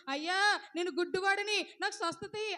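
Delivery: a blind man calls out to be healed; pleading cry. Acted. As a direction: cry out for mercy.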